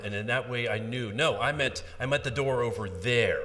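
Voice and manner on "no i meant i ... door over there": "I meant the door over there" stressed firmly with lengthened vowels; stretched-vowel emphasis. Shown as a demonstration. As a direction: make the point clear, louder, stretching the vowel in "door". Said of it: "I would stretch out that vowel sound".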